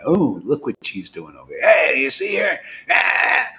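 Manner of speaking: half-acted shout, rising to a cry; calling out from a lookout. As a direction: call out as if spotting her, then a yell.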